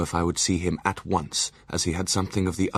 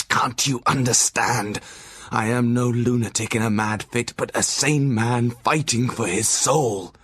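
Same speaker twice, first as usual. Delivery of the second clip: louder, higher and slow, desperately pleading; frantic pleading; 5 semitones higher, 4 dB louder, slower than usual. A narrator's reading. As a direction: beg for your soul at the top of your voice. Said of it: "he got into quite a frantic condition".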